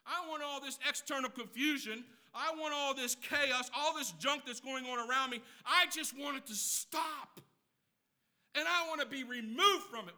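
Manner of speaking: hammed-up weary voice wanting it to stop; mock chaos wish. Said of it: "You're saying".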